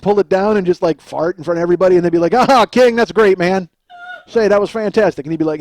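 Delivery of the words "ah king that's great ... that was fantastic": loud mock flattery; lightly voiced, over-impressed entourage member; fawning hanger-on. Elvis's entourage praises him after his prank, fawning.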